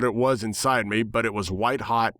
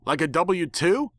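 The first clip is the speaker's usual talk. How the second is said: high, sneering spit of contempt; spat angrily; 7 semitones higher, slower than usual. Acted. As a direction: nightmare spits at the narrator, angry and high. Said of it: "it spat angrily".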